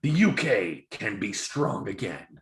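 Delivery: a mock British party advert read; political ad voice. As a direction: intone it like a party broadcast. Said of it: "they showed their commercial".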